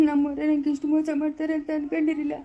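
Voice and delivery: weepy, hurt lament; tearful. Acted. Man mourns betrayal by his own people, tearful. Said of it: "ಯಾಕೆ ಅಳೋದು?".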